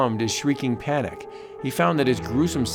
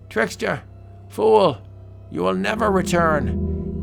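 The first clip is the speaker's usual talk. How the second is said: angry guard; 7 semitones higher than usual. Acted. Guard berates him.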